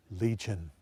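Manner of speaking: low and soft, ominous; low, dark answer. Shown as a demonstration. Demons naming themselves to Jesus, low and soft. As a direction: growl out the name quietly.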